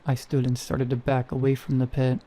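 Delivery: ordinary delivery, nothing marked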